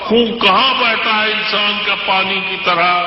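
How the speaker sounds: measured, declamatory poetry recital; stately nazm recitation. Acted. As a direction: recite each couplet with weight. Recites a ghazal at a mushaira.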